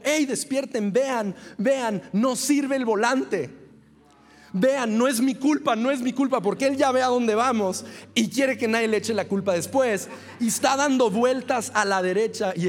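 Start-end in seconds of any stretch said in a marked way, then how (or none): 0.0-6.4 half-shouted alarm, a touch higher; mock panicked yell. Driver waking sleeping friends as the car swerves, mock panicked yell.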